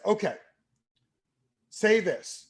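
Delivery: high, emphatic reading of a cue; mock novice reciting, long pause between phrases; clueless script reading. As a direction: read the instruction out as if it were dialogue. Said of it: "I literally was saying this out loud".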